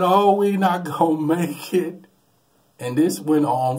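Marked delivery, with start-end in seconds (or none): 0.0-2.0 higher, louder doomed cry; terrified wail. Retold or imitated. Nephew in the swerving plane, higher and terrified. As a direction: wail that the plane will crash. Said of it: "And he said".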